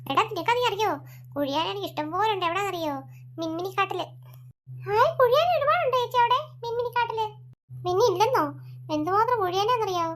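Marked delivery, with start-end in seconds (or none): 4.8-7.2 put-on childlike delight; excited little boy. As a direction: squeal with joy like a kid. Boy excited about antlions.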